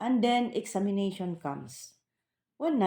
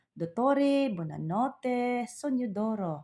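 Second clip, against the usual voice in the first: put-on slow, gentle goodnight to the old man in Italian; drawn-out fond goodnight; tender goodnight; 4 semitones higher, much slower than usual. Caregiver bids her elderly employer goodnight, tenderly and slowly. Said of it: "At dati yun, nung hindi pa ako galit".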